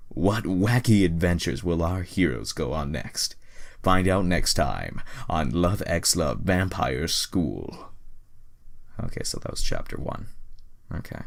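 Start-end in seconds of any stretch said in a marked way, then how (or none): 0.1-7.9 announcer outro. Acted.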